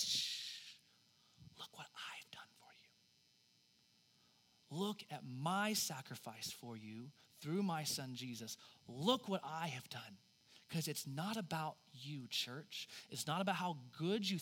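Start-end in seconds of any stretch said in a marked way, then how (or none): 0.0-10.2 soft, slow whisper of God. Acted. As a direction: hush them and point to the cross, barely voiced. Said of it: "he just says".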